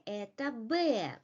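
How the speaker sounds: "это Б" stated with a fall on Б; falling statement intonation. Shown as a demonstration. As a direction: drop the pitch on "Б" to confirm. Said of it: "falling intonation".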